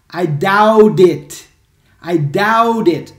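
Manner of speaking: "I doubt it" loud and drawn out, doubt running into it; linked pronunciation. Shown as a demonstration. Teacher models "I doubt it" for students, slow, loud linking. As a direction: stretch "doubt" and link its t into "it". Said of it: "Como é a pronúncia?".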